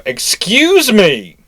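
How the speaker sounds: very slow, high, drawn-out Excuse me; a prim old warship butting in politely; polite ship. Acted. Ship voiced in naval joke.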